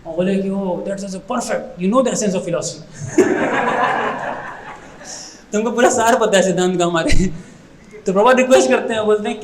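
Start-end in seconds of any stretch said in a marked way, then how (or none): 0.5-4.5 laughing. Retold or imitated. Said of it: "खूब हंसे जोर जोर से".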